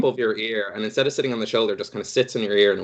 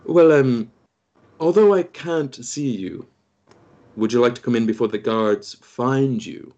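higher-pitched, hesitant dwarf voice; dwarf character; 3 semitones higher, 3 dB louder than usual. Acted. Dwarf invites unseen visitors in before the guards find them, in character. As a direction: step out as the dwarf, raised pitch, slowing midway. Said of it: "You hear him come out and go".

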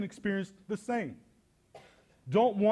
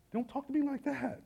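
firm rebuke; 5 semitones higher than usual. Retold or imitated. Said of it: "I smiled".

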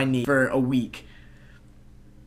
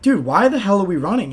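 higher, excited dude voice; excited realization; 5 semitones higher than usual. Retold or imitated. Rallying the crowd, higher and excited. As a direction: it just hit you, say it up high.

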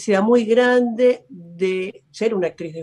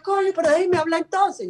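exasperated self-talk; 9 semitones higher than usual. Retold or imitated. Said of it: "y yo".

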